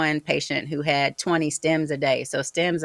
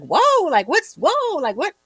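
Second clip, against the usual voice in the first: much higher, mock-amazed relatives' whoa; retold amazement; 12 semitones higher, 6 dB louder than usual. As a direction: play the relatives gasping in disbelief.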